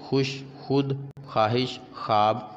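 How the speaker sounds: खुश, खुद, ख्वाहिश, ख्वाब with no "w" sound; silent waao. Shown as a demonstration. Teacher showing waao madoola, ख्वाहिश said "khaahish", w silent. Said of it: "पर पढ़ने में ना आए".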